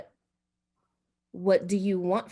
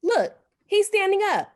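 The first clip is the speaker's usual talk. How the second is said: much higher and louder, panicked; terrified cry; 12 semitones higher, 4 dB louder than usual. Acted. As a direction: shriek it out in sudden fright. Terrified wife sees the old man.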